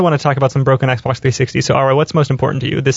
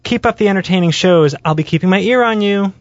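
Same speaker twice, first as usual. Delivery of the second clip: man doing a woman's voice; 5 semitones higher than usual. Pretend. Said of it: "sorry about that voice".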